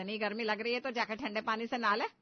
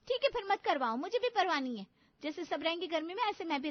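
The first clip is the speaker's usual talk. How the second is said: higher, louder hurt outburst; angry shout; 5 semitones higher, 3 dB louder than usual. Acted. Navya snapping back at her sister-in-law, loud and hurt. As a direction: fling it back in anger.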